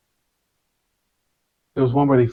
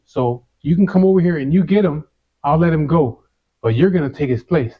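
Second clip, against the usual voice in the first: taunting challenge; 3 semitones higher than usual. Retold or imitated. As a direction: dare him to come over, voice up. Daring the big mouth to come.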